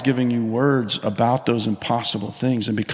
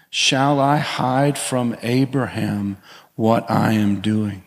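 scripture reading; slower than usual. Acted.

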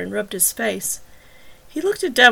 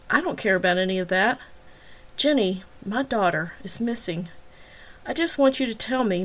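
forced calm. Acted. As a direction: hold the anger down, speak gently. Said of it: "forcing himself to be calm".

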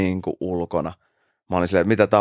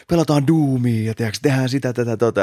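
happy; 4 semitones higher than usual. Retold or imitated. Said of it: "niin onnellinen".

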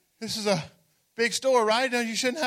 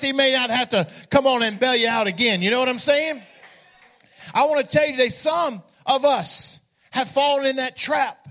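full-force preaching. Acted. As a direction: preach it with passion to the congregation. Preaching climax with music.

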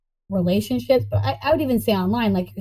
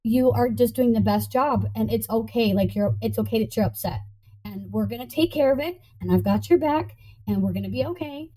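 reassuring self-talk. Pretend. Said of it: "I go to me and I'm like".

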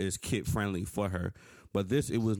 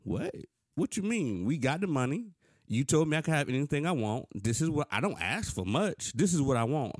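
higher, indignant pleading, retold; protesting teenager; 5 semitones higher than usual. Young son protesting to his father over the car, indignant and higher. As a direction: plead like a disbelieving teen denied a car. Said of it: "And I'm like".

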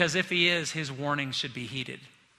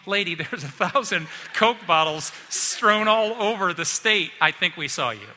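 a hint of a teasing bystander, louder; louder teasing retort; mock reply; 4 dB louder than usual. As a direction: tease the lady for hoping nobody saw.

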